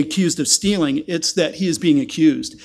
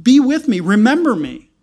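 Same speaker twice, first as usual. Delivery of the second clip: pleading cry; 5 semitones higher, 4 dB louder than usual. Acted. Voiced plea to the Lord.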